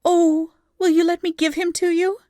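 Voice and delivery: high, loud eager plea; seeing a great light in darkness; eager urging. A narrator's reading. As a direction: urge him, overjoyed. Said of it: "she urged".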